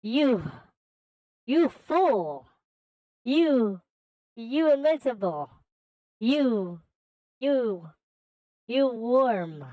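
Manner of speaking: mildly outraged, sputtering villain; acted indignation in broken bursts; furious villain. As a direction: stammer each insult with a rise and fall. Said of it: "Infinite became furious and absolutely shrill".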